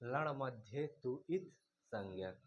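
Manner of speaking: a teacher reciting the sutra slowly for students to repeat; slow sutra recitation. Shown as a demonstration. Teacher reciting a Sanskrit rule to students, slow and measured. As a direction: chant the sutra slowly, word by word. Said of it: "तो अब आप एक सूत्र पढ़ेंगे".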